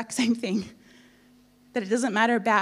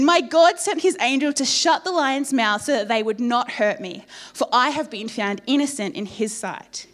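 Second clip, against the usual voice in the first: loud, raised declaration; proclaiming; 2 semitones higher, 4 dB louder than usual. Acted. Daniel telling the king of the angel, proclaiming. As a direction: proclaim God's rescue.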